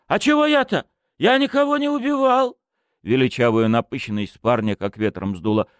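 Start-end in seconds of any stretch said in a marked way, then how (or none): 0.1-2.6 high, loud protesting voice; petty crook's squeaky protest; indignant young thief. Acted. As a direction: deny it all, offended. Suspect protesting innocence.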